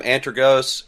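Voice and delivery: "Antergos" ending in a long "gohs"; varied pronunciation. Shown as a demonstration. Joking over distro names, "Antergos" ending in "gohs". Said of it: "we laugh about that all".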